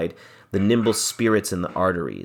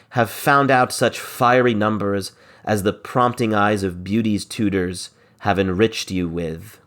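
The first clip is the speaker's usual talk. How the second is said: dramatic verse reading. Acted. Teacher performing Biron's plea to the lords, dramatic reading. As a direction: argue it like Biron pleading with his lords.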